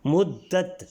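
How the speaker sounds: "مدت" as mud-dat, doubled d, stopping on the final t; careful pronunciation. Shown as a demonstration. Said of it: "تے پر رک جائیں گے".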